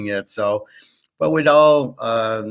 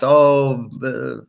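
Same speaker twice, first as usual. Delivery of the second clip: mock whiny fear; 4 semitones higher, slower than usual. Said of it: "Reminds me of Animal House".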